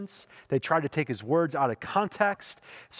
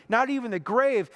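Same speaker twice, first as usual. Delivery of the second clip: ordinary talk, nothing marked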